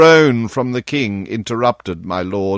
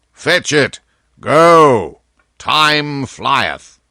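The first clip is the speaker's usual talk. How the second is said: louder, brisk commands; impatient royal orders; 4 semitones higher, 4 dB louder, much slower than usual. Acted. King sending Hertford for the seal, impatient. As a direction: send him off at once.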